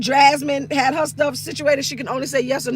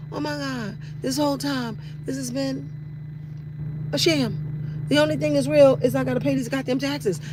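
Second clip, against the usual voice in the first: hushed realization; 6 dB quieter than usual. Retold or imitated. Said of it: "You're like".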